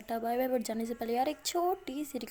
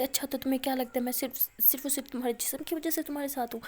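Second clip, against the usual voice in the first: angry; 3 dB louder than usual. Acted. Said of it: "مایا کو اور زیادہ غصہ آ جاتا ہے".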